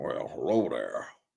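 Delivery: cool, rough, creaky, rasping bounty-hunter voice. Talking about a favorite character and imitating his voice: Cad Bane voice. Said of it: "he always kinda talked like this".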